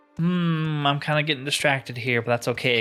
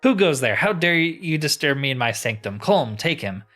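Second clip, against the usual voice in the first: higher, indignant challenge to an intruder; haughty mistress ordering her servant; pitched up, theatrical command; imperious cult leader; 4 semitones higher, 4 dB louder than usual. Acted. Voices game's hostile leader.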